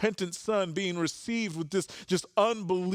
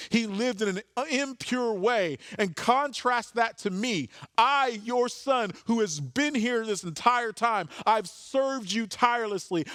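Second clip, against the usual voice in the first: pitched higher, a resentful complaint that builds; aggrieved older son; 5 semitones higher than usual. Retold or imitated. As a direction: list his grievances like a wronged brother, slowing on key words. Older son's complaint voiced aloud.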